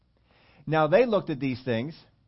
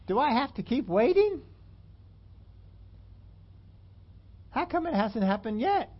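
complaining prayer; 7 semitones higher than usual. Retold or imitated.

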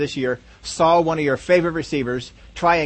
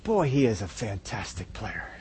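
ironic praise; 10 semitones lower, 12 dB quieter than usual. Retold or imitated. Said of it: "How many of you are saying to yourself".

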